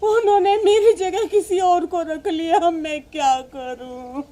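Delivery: sobbing mother's lament; crying. Acted. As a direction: cry through the words, sinking at the end. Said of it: "आप रो क्यों रही हो". (रोते हुए दुखड़ा सुनाना)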